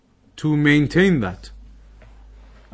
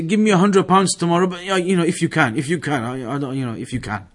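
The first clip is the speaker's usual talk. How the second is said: tentative asking; 3 semitones higher than usual. Retold or imitated. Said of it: "very tentatively".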